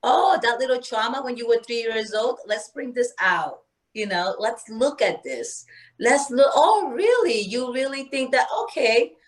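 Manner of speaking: a hint of a curious spirit digging around; the medicine spirit. Medicine spirit probing her childhood trauma, lightly playful. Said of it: "she comes in and she's like".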